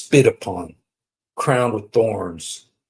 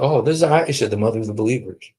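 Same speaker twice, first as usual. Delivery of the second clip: mock meek reply; 2 semitones higher, much faster than usual. Terrified husband explaining who sits next to him, mock meek.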